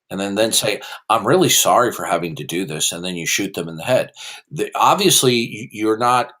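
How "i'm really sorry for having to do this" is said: low, courteous mock apology; mock-polite apology. Debater acting a gunman before he shoots, mock-apologetic. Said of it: "Somebody could politely say".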